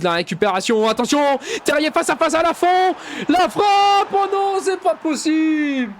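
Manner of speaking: fast, excited French match commentary; live play-by-play. Acted. Gamer calling his own match as commentator, excited play-by-play. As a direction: call the attack like a TV commentator.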